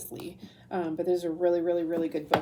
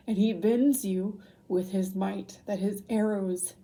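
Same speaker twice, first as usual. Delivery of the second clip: emotional; 5 dB louder, slower than usual. Real, not acted. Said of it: "I'm getting emotional".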